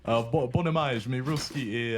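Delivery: hesitant attempt at speaking Russian; rough Russian. Shown as a demonstration. Caster asking co-caster to rate it, halting Russian. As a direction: try out shaky learner's Russian. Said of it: "rate my Russian".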